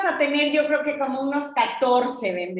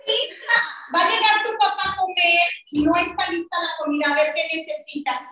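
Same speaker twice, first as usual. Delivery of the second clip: hurried mom; 3 semitones higher than usual. Pretend. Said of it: "tú eres mi mami".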